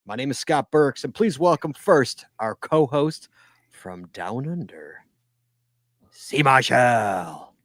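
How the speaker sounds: punchy welcome, slowing for the introduction; show-opening announcer. Acted. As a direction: announce the co-host like a ring announcer. Podcast host's show opening.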